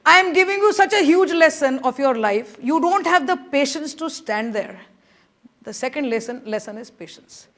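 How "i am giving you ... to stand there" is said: judge's rebuke. Retold or imitated. Judge raising his voice at the impatient junior. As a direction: drive the lesson home firmly.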